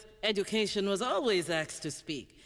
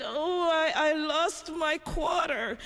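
put-on higher and slow, a child's mild whimper; little girl voice; 7 semitones higher, slower than usual. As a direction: play the upset little girl. Crying little girl answers.

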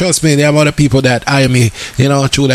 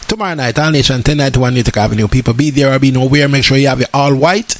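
promo ad read; 4 semitones lower than usual. Acted. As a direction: announce the event like a radio ad. Reads event promo again.

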